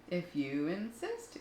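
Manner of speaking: slow, sweet and calm; a sweet, slow reply to a bully; sweetly. Acted. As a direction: answer sweetly, unbothered. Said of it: "answered the friendly ladybug sweetly".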